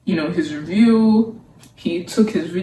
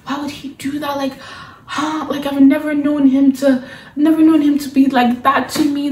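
higher, hushed, puzzled heroine voice; mock baffled Sam; 6 semitones higher than usual. Reviewer imitating the heroine's baffled reply, hushed and higher. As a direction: play her as cluelessly confused, half-whispered. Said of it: "She was like".

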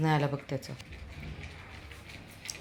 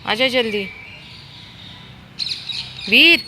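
high, loud urgent hurrying; calling out; 10 semitones higher, 8 dB louder than usual. Real, not acted. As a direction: warn him that cars are coming. Hurrying child, cars coming.

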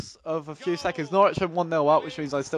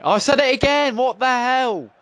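exasperated outburst; 8 semitones higher, 6 dB louder than usual. Real, not acted. Annoyed at saying right again.

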